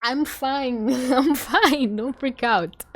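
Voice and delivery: high-pitched, barely composed reassurance; flustered self-soothing. Real, not acted. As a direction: try to steady yourself mid freak-out. Trying to calm own freak-out.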